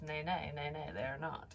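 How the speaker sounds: ordinary delivery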